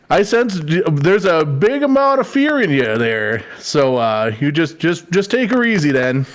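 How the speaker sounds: calm Minnesota uncle advice; Minnesota accent. Pretend. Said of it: "so good in a Minnesota accent".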